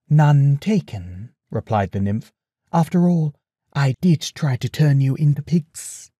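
wry, teasing goddess; amused, lightly teasing. Acted. Circe voiced in story.

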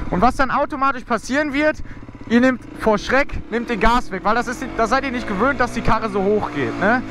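normal talking voice

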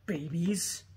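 laughing half-shout of outrage; mock fury at ugly decor; angry outburst. Recalling her reaction to the baby Frankenstein decor, laughing shout. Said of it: "I was so angry about it".

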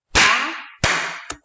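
"Pa, pa" in two loud, split syllables; counting syllables. Shown as a demonstration. Teacher counts syllables aloud for children, loud and split. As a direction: clap out "Pa, pa" loud and apart. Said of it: "vamos a contar las sílabas".

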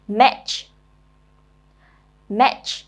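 match said slowly and clearly as a teacher's model; model pronunciation. Shown as a demonstration. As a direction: say match clearly for pupils to copy. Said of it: "nghe cô đọc rồi mình nhớ luôn cách phát âm".

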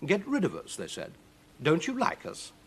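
high-pitched, affronted questions; mock-hurt surprise. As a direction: ask it as if lightly wounded. Demons act hurt and surprised.

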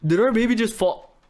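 high-pitched, startled disbelief; alarmed shock. Acted. Parent sees the baby fall into a sewer, alarmed. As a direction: cry out in sudden alarm.

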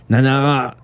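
ordinary delivery

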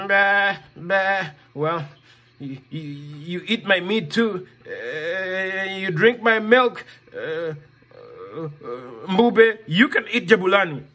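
low, hesitant sheep voice with bah; bleating sheep. Acted. Sheep tells the lion to eat the boy, bleating. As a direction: stammer like a shy sheep.

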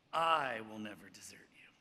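hushed whisper of a promise; whispered vow. Retold or imitated. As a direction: breathe the vow. Peter's vow acted out.

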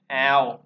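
"ao" with the mouth stretched wide; wide-open ao. Shown as a demonstration. Teacher demonstrating the new vowel, "ao" said wide open. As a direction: open right up on "ao". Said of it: "bành miệng ra".

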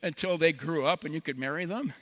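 acted-out sarcastic challenge; a little sarcastic. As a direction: lay on a touch of sarcasm. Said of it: "she gets a little sarcastic".

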